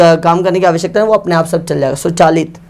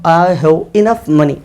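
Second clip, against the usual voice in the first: slow dictation; 2 semitones lower, much slower than usual. Shown as a demonstration. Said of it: "तो मैं कहूँगा".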